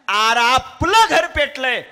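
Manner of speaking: high, loud, drawn-out lament; wailing cry. Acted. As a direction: wail the news at your son. म्हातारा रडत ओरडतो. (घर पेटल्याने मुलासमोर रडणारा म्हातारा, उंच रडवेला आवाज)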